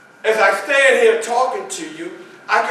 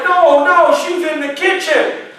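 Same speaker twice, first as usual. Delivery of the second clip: much higher, much louder denial; boy insisting grandma is in the kitchen, high and loud; panicked child; 9 semitones higher, 6 dB louder than usual. Retold or imitated. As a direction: refuse to believe it.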